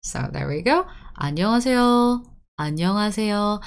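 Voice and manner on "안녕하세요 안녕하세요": "안녕하세요" with 요 relaxed towards "어"; Seoul-style "안녕하세요" with a light ending. Shown as a demonstration. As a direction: say "안녕하세요" without closing the mouth on 요. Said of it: "it's actually a Seoul accent".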